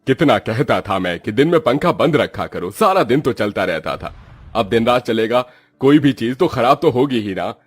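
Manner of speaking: grumbling, mildly scolding father; put-upon head of the household; exasperated father. Acted. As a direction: complain wearily with lively emphasis. Father grumbles about broken fan.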